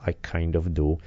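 slow, sheepish yes; reluctant admission. Retold or imitated. Mad parent accepting child's offered hug, slow softened admission. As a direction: admit it slowly, giving in. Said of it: "And I'm like".

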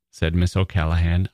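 ordinary delivery

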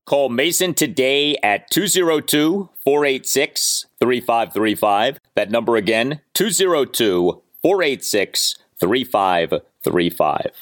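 lively sponsor ad read. Acted. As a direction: sell it like a radio spot. Host reads sponsor ad.

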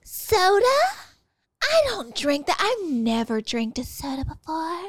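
imitating a snob turning down soda; snobby soda hater. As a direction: look down your nose at soda. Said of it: "They go".

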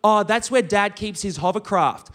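slow, matter-of-fact rich friend; imitated casual, unbothered reply; deadpan. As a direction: say it with a straight face. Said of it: "looks at me with a straight face and goes".

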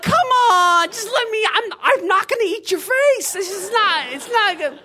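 high, strained pleading, loud at first; desperate pleading. Retold or imitated. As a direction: beg them not to panic. Mummy pleading outside door.

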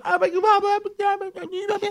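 very high, very slow mock exclamation; drawn-out oh my God. Wife watching husband walk back, drawn-out high dismay. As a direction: stretch it out in exaggerated dismay. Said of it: "She's like".

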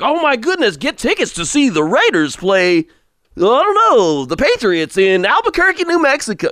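high, slow, hammed-up DJ hype voice; mock radio DJ. Host imitating a radio DJ hyping Patriots in Albuquerque, hammed-up high DJ voice. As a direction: gush like an over-the-top radio DJ selling tickets. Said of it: "some D J would be like".

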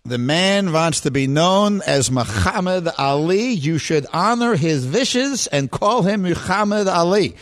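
put-on slow old Jewish barber voice; lightly voiced old barbershop man; Eddie Murphy impression. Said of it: "I'm doing Eddie Murphy in Coming to America".

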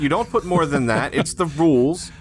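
mock rule-bound bureaucrat; lightly voiced pompous official; stubborn official. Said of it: "they're like".

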